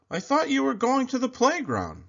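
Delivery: high father voice calling out. A narrator's reading. Father calling to his son from the car. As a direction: call across the yard to your son. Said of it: "Father called".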